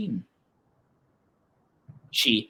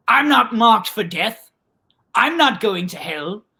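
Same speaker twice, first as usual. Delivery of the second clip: put-on cocky teenage disbelief; 2 semitones higher than usual. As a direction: brag it off, dismissively. Girl scoffs to herself in story.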